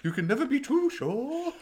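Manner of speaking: high, loud laughing. Real, not acted. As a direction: speak through a fit of laughter. Laughing through the line.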